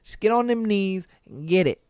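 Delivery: a put-on, lightly voiced smooth-talking husband; lightly voiced husband pitching his birthday wish; mock smooth husband. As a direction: play it as cheeky bedroom talk. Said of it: "He said".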